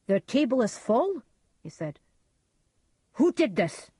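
high, loud, fearful outburst; frightened. A narrator's reading. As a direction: recoil in horror. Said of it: "His face was white with fear".

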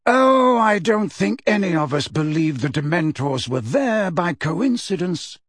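breezy, lightly unconcerned. Acted. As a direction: toss it off lightly. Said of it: "said Dumbledore lightly".

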